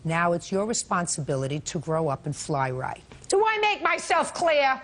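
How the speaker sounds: stern lecturing judge; sarcastic scolding tv judge. Real, not acted. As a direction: scold him like a strict judge.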